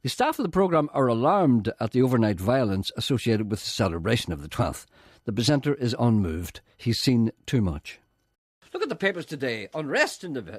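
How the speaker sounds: loud, deliberate announcer read; podcast intro read. Acted. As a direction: read it out like a formal programme introduction.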